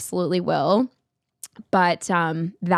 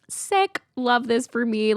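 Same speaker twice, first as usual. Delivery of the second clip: sarcastic; 4 semitones higher, slower than usual. Retold or imitated. Sarcastic reply to cancelled flight.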